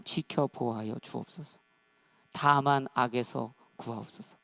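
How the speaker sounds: slow, low, measured prayer. Acted. Preacher asking God to guard thoughts and steps, prayerful. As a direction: pray it phrase by phrase, with pauses.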